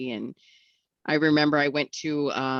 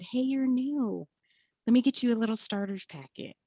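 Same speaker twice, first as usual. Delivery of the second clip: eager lady voice; 10 semitones higher than usual. Retold or imitated. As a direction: play the overeager helper.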